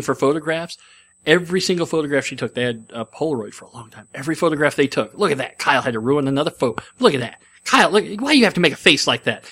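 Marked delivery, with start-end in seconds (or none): 5.1-9.4 imitating an irritated grandmother's scolding; exasperated grandmother. Grandmother berating Kyle during family photographs, mock exasperation. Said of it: "That's what she was like".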